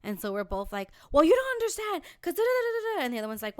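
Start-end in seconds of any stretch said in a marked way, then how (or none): 1.1-3.0 high, whiny bickering babble; mock bickering. Women arguing back and forth, mock bickering. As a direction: squabble in a high, hammed-up voice. Imitating both sides of an argument.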